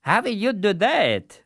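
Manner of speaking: put-on high wondering old man voice. A narrator's reading. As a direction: ask the fool gently.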